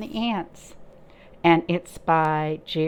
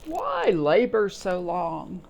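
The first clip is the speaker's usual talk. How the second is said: slow, lightly chirpy grasshopper voice; chirped; slower than usual. Acted. Teacher reading the grasshopper to children, lightly chirpy and slow. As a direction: chirp the question lazily, slowly. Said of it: "Grasshopper chirped".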